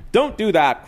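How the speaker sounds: startled cook calls out; cook crying out. Acted. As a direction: cook yelling across the diner. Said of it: "cried the cook".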